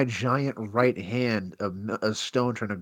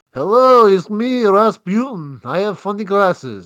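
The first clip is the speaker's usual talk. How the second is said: Rasputin; 9 semitones higher, 11 dB louder, slower than usual. Retold or imitated. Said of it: "he's like".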